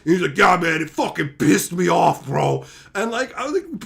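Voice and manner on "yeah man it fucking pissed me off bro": imitating pissed friend. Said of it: "my best friend got pissed".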